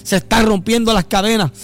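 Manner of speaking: worship prayer. Acted. Adoración cantada/orada sobre música. (adoración suave y reverente)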